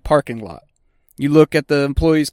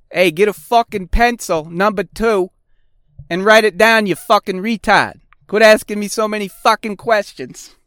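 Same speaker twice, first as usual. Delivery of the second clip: put-on mean old tech; 6 semitones higher than usual. Grumpy old tech yelling at newbie.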